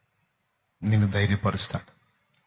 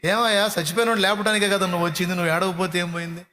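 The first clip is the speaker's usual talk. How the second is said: pleading with Jesus; 7 semitones higher, faster than usual. Retold or imitated. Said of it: "నాకు అనిపించింది".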